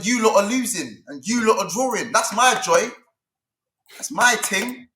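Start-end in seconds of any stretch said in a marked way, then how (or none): 2.1-4.9 with chest. Real, not acted. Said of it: "he said that with chest".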